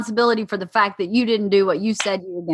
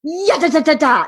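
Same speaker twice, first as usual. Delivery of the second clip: higher-pitched barked nonsense syllables; attacking Rottweiler; 4 semitones higher than usual. Acted. Wife acts out tearing into husband, barking. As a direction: go at him like a guard dog. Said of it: "Not like a chihuahua, more like a Rottweiler".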